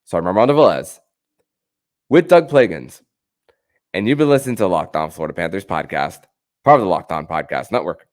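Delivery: brisk host sign-off, pushing the plugs; upbeat radio-style closing read, quick pace; podcast outro read. Acted.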